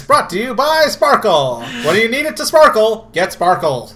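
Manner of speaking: put-on old-time radio announcer; vintage ad read, sing-song; old-timey voice. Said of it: "I'm the one speaking in an old-timey voice".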